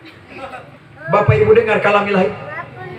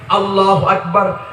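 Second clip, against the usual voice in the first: imam's takbir; slower than usual. Retold or imitated. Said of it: "begitu cepatnya imam".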